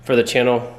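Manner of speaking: breathless from running around; talking while catching your breath. Real, not acted. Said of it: "Sorry, I'm out of breath".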